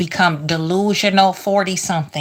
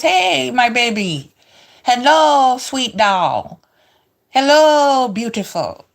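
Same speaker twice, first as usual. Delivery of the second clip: bodega man greeting; 4 semitones higher, slower than usual. Retold or imitated. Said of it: "All the time he says".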